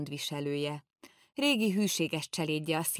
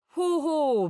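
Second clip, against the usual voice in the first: much higher, loud scornful cry; mocking shout; 12 semitones higher, 8 dB louder than usual. Pipitér retells mocking the courtier, loud scornful cry. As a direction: scoff at the clerk loudly.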